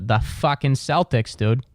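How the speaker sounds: mild mock Boston accent, slowed down. Host suddenly loving the Celtics like his friend, mock Boston accent. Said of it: "I start talking like him".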